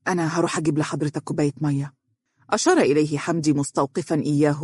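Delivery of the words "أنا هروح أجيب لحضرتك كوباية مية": quick, subdued concern; worried. Acted. Lawyer offering agitated boss water, worried. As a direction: offer help with a touch of worry. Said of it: "بقلق وهو يقول".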